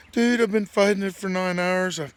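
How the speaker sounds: high, loud mock lament with a laugh breaking in; retold pleading. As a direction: imitate your buddy wailing out his woes. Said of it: "He's like begging me, pleading with me".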